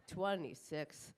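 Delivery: drawn-out slow repeat; slow disbelief. Acted. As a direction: stretch the word Twenty-six in disbelief. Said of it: "repeated incredulous".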